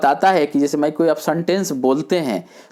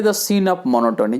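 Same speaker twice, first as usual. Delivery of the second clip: slow heading; 6 semitones higher, much slower than usual. Shown as a demonstration. Reads point title slowly.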